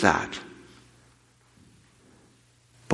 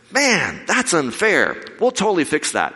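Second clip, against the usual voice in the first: sympathetic guy; 9 semitones higher than usual. Retold or imitated. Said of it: "he goes".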